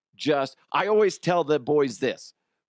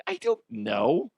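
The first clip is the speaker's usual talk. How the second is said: baffled dad; 7 semitones higher than usual. Retold or imitated. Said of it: "I'm like".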